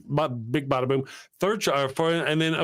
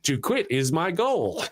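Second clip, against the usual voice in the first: slow, even machine voice; flat robotic cigarette machine; 3 semitones higher, slower than usual. Retold or imitated. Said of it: "The ro-, robotic voice goes".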